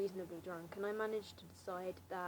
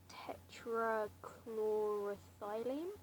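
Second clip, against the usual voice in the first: whispered; much slower than usual. Acted. Reading random words aloud.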